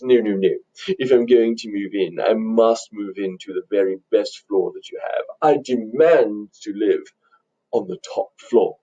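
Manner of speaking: fancy, demanding rich doctor; mannered fancy talk, slowing on the demand; fancy talker. Acted. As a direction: insist grandly, stretching the final demand. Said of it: "he talks fancy and wears fancy clothes".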